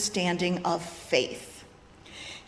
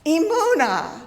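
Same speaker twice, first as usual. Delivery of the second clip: loud braying; 6 semitones higher, 5 dB louder than usual. Shown as a demonstration. Preacher leading the congregation, loud braying cries. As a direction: bray Emunah out like a baby donkey. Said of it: "Say it loud and bray-, braying".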